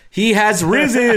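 high, hammed-up preacher's announcement; mock church proclamation. Mock proclamation after speaking of church.

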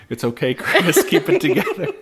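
giggling through a mock pep talk, pitch jumping high; laughing mock reassurance. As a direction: laugh while pretending to soothe the moderator. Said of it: "I thought he was like".

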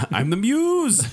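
slow, high, laughing; mock grand declaration. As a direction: announce yourself as the muse. Mock grand self-introduction.

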